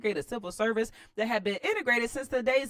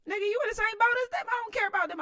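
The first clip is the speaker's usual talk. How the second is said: high, fast sneering politician voice; mock politician; 4 dB louder, faster than usual. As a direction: scoff at him as the president. Mocking the president's voice.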